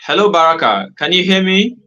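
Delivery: high, loud calling out; calling out loudly. Real, not acted. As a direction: shout to be heard down the line. Calling to a guest on a bad line.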